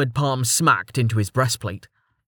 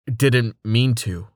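sighing; slower than usual. Acted. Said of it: "said with a sigh".

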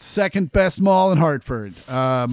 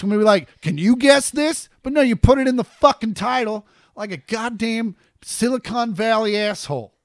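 higher pitched outraged tirade; indignant rant; 5 semitones higher than usual. Real, not acted. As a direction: scold the YouTubers. Ranting at YouTube spoilers.

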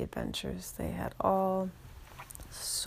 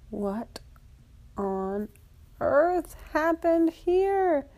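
surprised; 10 semitones higher, 5 dB louder, much slower than usual. Acted. Kids find empty locked pool.

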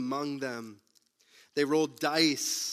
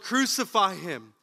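crowd bellowing; 3 semitones higher, 3 dB louder than usual. Retold or imitated. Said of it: "The people bellowed".

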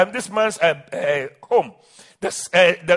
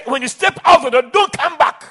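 raised, higher father's ultimatum; a hint of a stern father; stern warning; 4 semitones higher, 4 dB louder than usual. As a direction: hand down the curse. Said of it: "the father said".

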